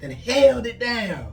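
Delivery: bug voice. Pretend. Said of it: "Let me get in my bug voice".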